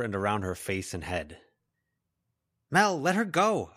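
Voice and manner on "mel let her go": high, drawn-out, louder call; boy's shout. A narrator's reading. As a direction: call out slowly to stop her. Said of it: "a boy shouted".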